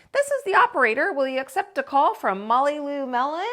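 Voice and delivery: high, chirpy phone operator. Acted. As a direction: play the prim telephone operator. Operator voice on tin can.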